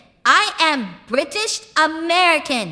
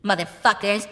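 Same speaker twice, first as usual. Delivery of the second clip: American accent; 3 semitones lower, 3 dB quieter than usual. Shown as a demonstration. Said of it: "I can just start talking like this with Spooky".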